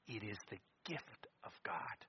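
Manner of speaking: soft, reverent whisper; hushed reading; whispered verse. Acted. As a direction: breathe the scripture. Whispered scripture.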